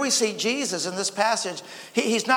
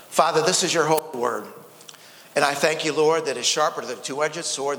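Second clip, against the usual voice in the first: lower, even praying voice; spoken prayer; 3 semitones lower than usual. Real, not acted. Pastor leads congregation before the message, spoken prayer. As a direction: pray in a lowered, steady tone.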